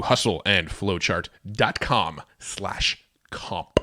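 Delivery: deep announcer read; radio voice. Shown as a demonstration. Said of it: "radio voice now".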